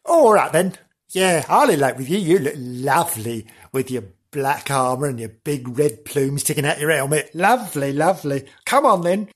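smitten princess gushing her agreement; eager, hammed-up princess saying yes; bewitched princess. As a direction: gush over your demon suitor. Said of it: "so she went".

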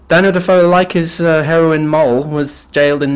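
high, loud burst on the name; excited. Real, not acted. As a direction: announce it with a jolt of energy.

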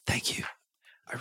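soft whispered thanks; whispering. Real, not acted. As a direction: whisper so he won't wake. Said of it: "Keep your voice down".

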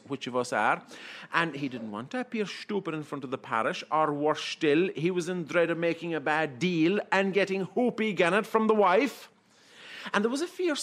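lilting irish storyteller. A narrator's reading. Shanachie telling a comic tale.

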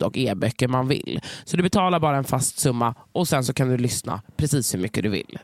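upbeat sponsor read. Acted. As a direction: sell the service like a podcast ad. Reads the sponsor message.

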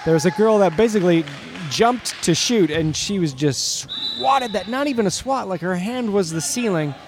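lively game announcer; sports commentary. Acted. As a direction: call the game. Play-by-play commentary.

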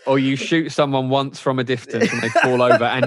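chuckling through the joke; laughing. Real, not acted. Film critic mocking action-movie deaths, laughing. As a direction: speak while amused.

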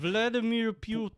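put-on Russian accent. Shown as a demonstration. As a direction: say the name like a Russian. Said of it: "see if I can do a Russian voice".

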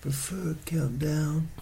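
hippie whisper. Acted.

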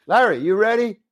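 high-pitched call across the set, mild; mock director's yell, no real volume; imitated yell. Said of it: "He yells out".

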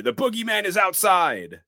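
high, loud imitation of a panicked scream; mock screaming bloody murder. Tommy backs into Lindsay to warn of the boogeyman, mock screaming. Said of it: "starts screaming bloody murder".

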